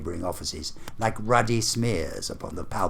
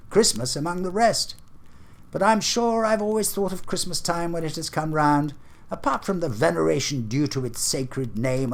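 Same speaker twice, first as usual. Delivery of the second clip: higher, heartfelt speech in praise of Christmas; earnest young nephew; 4 semitones higher than usual. Acted. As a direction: plead for Christmas from the heart, pitched up.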